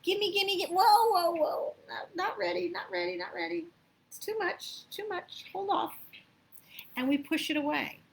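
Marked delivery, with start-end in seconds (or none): 0.0-6.0 high, grabbing gimme, then flustered backing off; hammed-up greed turning into mock alarm; greedy then panicked. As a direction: act a grabby person who suddenly panics at too much. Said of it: "sometimes you actually go".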